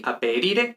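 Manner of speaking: "aperire" with the stress on the I before "re", lightly lengthened; acento en la I. Shown as a demonstration. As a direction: lean on the tonic I in "aperire". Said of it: "Respecto a la sílaba tónica". ("aperire" marcando la I tónica)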